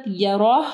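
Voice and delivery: यरा as "yaroh", rounded R and breathed h; यरा with a weighty second syllable; heavy Ra. Shown as a demonstration. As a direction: end यरा on a full "roh". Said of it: "रा को heavy पढ़ना है".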